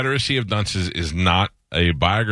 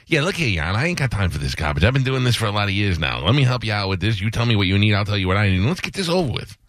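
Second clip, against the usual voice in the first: fast-talking Chicago lawyer; 2 semitones higher than usual. Pretend. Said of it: "fast-talking guy from Chicago".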